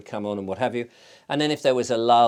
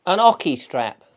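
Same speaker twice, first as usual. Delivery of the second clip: put-on higher and louder Australian accent, insistent; Barbara's Australian accent; 5 semitones higher, 7 dB louder than usual. Barbara O'Neill repeating her question, louder Australian accent. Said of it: "'Cause she's Australian".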